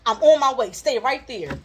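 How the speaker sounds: hammed-up strict mother laying down the law; stern mom order. Mom on the phone ordering her daughter to stay put, mock stern. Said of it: "the tone of her voice just changed".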